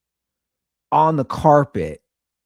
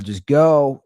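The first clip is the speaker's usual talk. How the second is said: retold yell; 6 dB louder than usual. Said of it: "I yell down".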